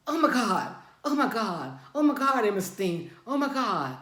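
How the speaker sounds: loud, high frantic "oh my God" over and over; retold husband's loud panic at the knife; panicked cries. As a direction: mimic a terrified man begging.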